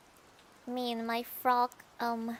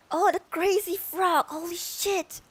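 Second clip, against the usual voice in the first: excited realization; 4 semitones higher than usual. Real, not acted. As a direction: shout out the idea as it hits you. Suddenly remembers a frog song.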